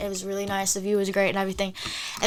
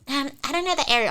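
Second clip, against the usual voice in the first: slightly higher, hesitant mimicry; reluctant girl; 3 semitones higher than usual. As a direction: imitate a girl's feeble excuse. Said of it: "She's like".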